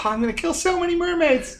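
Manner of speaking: high goblin voice cackling with glee. Acted. Goblin receiving a stabby weapon, high gleeful cackle. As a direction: laugh it out high and wild.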